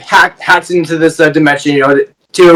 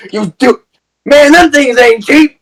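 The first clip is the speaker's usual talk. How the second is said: a light Mister Terrific voice, higher and slower; Mister Terrific impression; 7 semitones higher than usual. Friend imitating Mister Terrific mourning the spears, lightly voiced. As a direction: lightly voice Terrific griping about the cost. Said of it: "impression of Mister Terrific".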